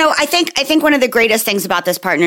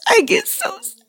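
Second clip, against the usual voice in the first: slow hammed-up child sadness; mock sob story; 2 semitones higher than usual. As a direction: overact the sad audition like a kid. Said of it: "working like that Joey from Friends".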